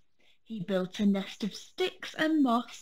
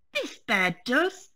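a touch louder, firm insistence; mildly firm cub answering the squirrel; firm little bear; 3 semitones higher, 4 dB louder than usual. Acted. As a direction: plant your feet on it. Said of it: "said Fred firmly".

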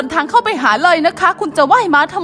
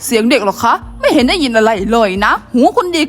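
dismissive lady; 7 semitones lower than usual. Acted.

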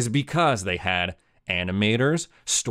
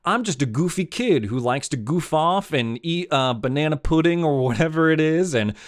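mocking whiny kid; 4 semitones higher than usual. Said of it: "what does he say during this monologue".

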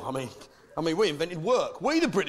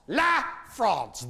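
"La France" said with a French accent, a bit higher; hammed-up French "La France"; 5 semitones higher than usual. Shown as a demonstration. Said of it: "as it prefers to call itself".

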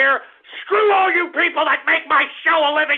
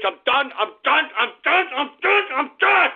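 from plain to higher, each repeat climbs; fed-up host escalating; building anger; 5 semitones higher than usual. Real, not acted. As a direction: wind yourself up with every repeat.

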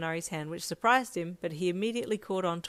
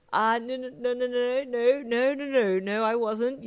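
high, loud flustered denial; nervous stutter; 6 semitones higher, 7 dB louder than usual. A narrator's reading. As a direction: stammer it out in a panic. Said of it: "you stuttered nervously".

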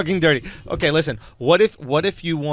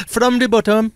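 higher-pitched Indian-accented add-on; sexy Indian accent; 4 semitones higher than usual. Shown as a demonstration. Capping the dirty-talk line, Indian accent. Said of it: "sexy talk in an Indian accent".

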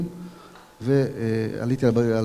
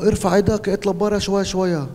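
raised command in Arabic; re-enacted shout, higher pitch; retold shouted order; 7 semitones higher than usual. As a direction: order him out, voice up. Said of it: "אני צועק לו".

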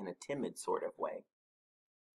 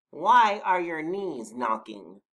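higher, louder, slow question; Badger's voice; 6 semitones higher, 9 dB louder, slower than usual. A narrator's reading. Badger asking about knocking knees, slow higher voice. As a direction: stretch the question out pointedly. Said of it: "said Badger".

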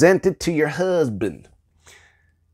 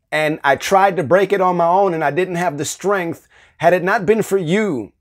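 heartfelt praise. Shown as a demonstration. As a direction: pour out real gratitude. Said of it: "praising God would look like this".

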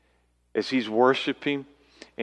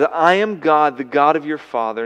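booming God; 4 semitones higher, 8 dB louder than usual. Pretend. God speaking to Jacob.

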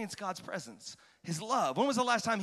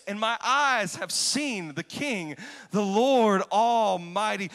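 anguished lament; 3 semitones higher, 4 dB louder, slower than usual. Retold or imitated. Isaiah confessing his unclean lips, anguished and loud. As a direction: wail it as a man undone. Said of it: "this is his response".

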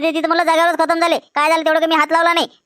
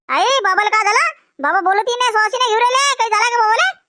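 lightly voiced child, a touch higher and scared; a hint of a small child asking for its father; frightened child; 4 semitones higher than usual. Child asking mother why father won't breathe, lightly frightened child voice.

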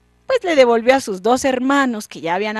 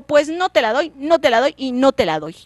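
angry king; 3 semitones higher, 5 dB louder than usual. Acted. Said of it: "enojadísimo".

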